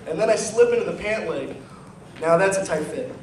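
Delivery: rhythmic slam-poetry delivery; comic poem recital. Acted. Poet to a live audience about grind dancing, comic recital. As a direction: perform a rhyming poem to a laughing crowd.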